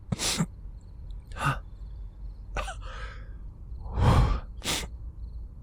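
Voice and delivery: long, breathy, broken sigh; shuddering sigh. Acted. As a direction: let out a long upset breath. Overwhelmed after venting.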